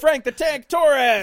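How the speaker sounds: slow, loud, high ring intro; ring announcer. Pretend. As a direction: announce him slowly like a wrestler.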